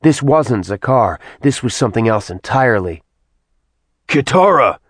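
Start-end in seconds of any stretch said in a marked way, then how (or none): 4.1-4.8 shouting a name. Acted. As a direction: yell her name across the room. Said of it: "Sin shouted".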